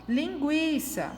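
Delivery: "Linguiça" slowly, leaning on GUI; stress on penultimate syllable. Shown as a demonstration. Teacher showing the strong syllable, "Linguiça" stressed on the penultimate. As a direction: stretch the second-to-last syllable of "Linguiça". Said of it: "a sílaba mais forte dela é a penúltima".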